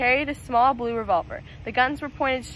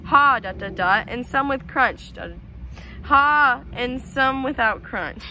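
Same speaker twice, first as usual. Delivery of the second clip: laughing; slower than usual. Acted. Mac laughing roll call.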